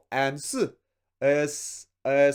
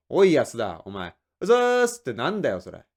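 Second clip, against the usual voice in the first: scolding boss; 5 semitones lower, 4 dB louder, much faster than usual. Acted.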